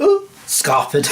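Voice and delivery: very high, slow giggling squeal; laughing squeal. Retold or imitated. Teller runs off, laughing.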